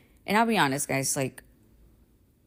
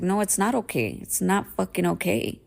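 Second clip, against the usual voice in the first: higher-pitched, emphatic refusal to be let off; insistent; 3 semitones higher than usual. Retold or imitated. Parent retelling refusing their child's forgiveness, insistent. Retold insistence to apologizing daughter.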